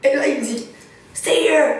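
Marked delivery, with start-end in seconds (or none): 1.1-1.7 higher, louder sharp command; barked order. Retold or imitated. Officer ordering the travellers to stay put, loud. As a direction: snap the order.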